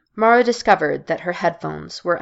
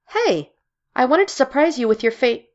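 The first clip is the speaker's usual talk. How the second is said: cheerful surprise; 7 semitones higher than usual. Acted. Jill surprises Mara cheerfully.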